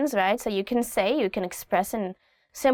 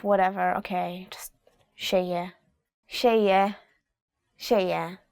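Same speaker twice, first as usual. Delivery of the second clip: tired giving up; 3 semitones lower than usual. Shown as a demonstration. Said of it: "you don't even wanna argue".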